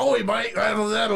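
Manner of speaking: high, mock-yelled Australian gibberish; rowdy Australian accent babble. Shown as a demonstration. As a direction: holler like a caricature Australian. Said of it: "like, yelling".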